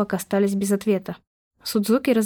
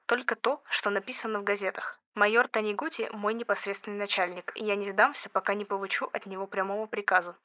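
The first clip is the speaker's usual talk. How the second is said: hushed, much softer whisper; 10 dB quieter than usual. Acted. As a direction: answer in a guarded whisper. Soldier's guarded reply, hushed. (шёпотом)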